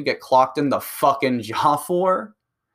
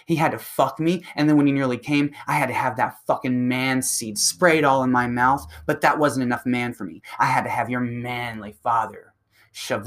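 taunting woman. Retold or imitated. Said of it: "they're like".

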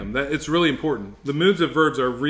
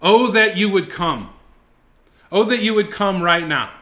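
higher, louder pleading cry; fervent exclamation; 6 semitones higher, 6 dB louder than usual. Shown as a demonstration. Preacher showing exclamatory passion to students, fervent plea. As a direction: plead with passion, oh that you would come. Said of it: "It's, it's deep emotion".

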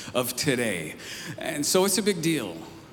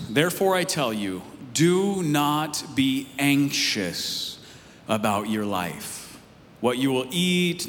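scripture reading. Acted. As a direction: read it out with weight, leaning on each phrase. Reads scripture aloud.

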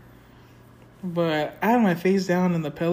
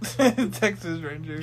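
stretched very slow; slow drawn-out; much slower than usual. Retold or imitated. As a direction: draw it out slowly.

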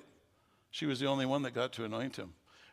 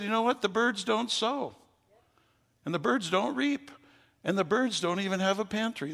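God speaking; 7 semitones higher than usual. Retold or imitated. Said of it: "And he said".

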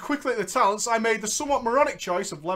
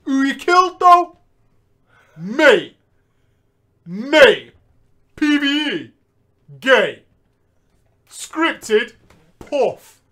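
PVP gamer voice; 3 semitones higher, 8 dB louder, much slower than usual. Retold or imitated. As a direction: sneer at the noobs. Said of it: "Doing my P V P voice".

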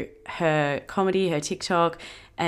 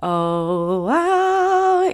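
wow squealed up high; a high thrilled wow; excited squeal; 10 semitones higher than usual. Real, not acted. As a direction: gush it, thrilled. Excited exclamation, big pitch jump.

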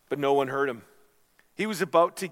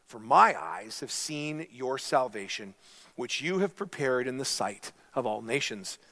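scripture reading. Acted. Pastor reading Simeon's prayer to the congregation, reverently.

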